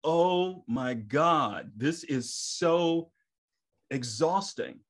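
slow, weary groan of a line; drained and slow. Retold or imitated. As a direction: drag each word out tired.

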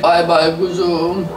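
"Bay bay kuzum" stretched out slowly, rising at the end; slow drawn-out goodbye. Shown as a demonstration. Saying goodbye to viewers, slow and drawn out. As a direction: draw out every syllable of "Bay bay kuzum" lazily.

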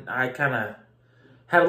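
speaking through fingers; muffled behind hand; hand over mouth. Real, not acted. Seen 0: Hand covers mouth at 0.1-0.4 and 1.4-1.6s, gone between.

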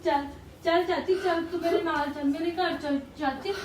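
tearful urging; crying plea. Acted. Niece begs her aunt to come home, crying. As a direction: beg through tears, come with me.

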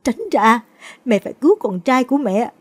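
mother shouts at the daughter-in-law to get out of her way; desperate shout. Acted. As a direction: push her away and cry out. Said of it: "gào lên".

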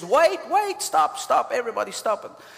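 a pastor suddenly yelling to halt the crowd; retold yell. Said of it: "he just stops and he yells".

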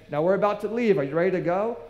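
mock announcing it's time to go; calling out. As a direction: round everyone up to leave. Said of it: "a place ... to say".

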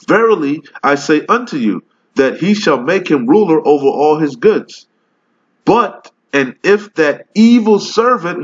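scripture reading. Acted. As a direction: read the verse like preaching it from the pulpit. Reads scripture aloud in preaching voice.

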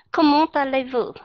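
"Không muốn ta lấy vợ" as French, T linked onto "ta"; French liaison. Shown as a demonstration. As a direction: say "Không muốn ta lấy vợ" like comment allez-vous, joining the T. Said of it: "đây là cái luật nối âm ở trong tiếng Pháp". ("Không muốn ta lấy vợ" nối âm T kiểu tiếng Pháp)

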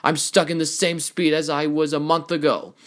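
high-pitched, exasperated venting; frustrated rant. Acted. Racer venting at trainer over lost training time, exasperated. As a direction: pour out the grievances in exasperation.

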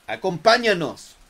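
loud cavernous growled command; false fold growl. Acted. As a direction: bark it like a dead soldier. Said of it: "la voz cavernosa que gritaba". (gruñido cavernoso gritado)

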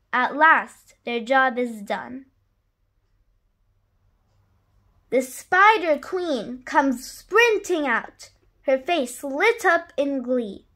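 put-on lively read-aloud rhyme for children; story narration. A narrator's reading. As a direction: read it like a bedtime picture book. Reads a rhyming picture book.

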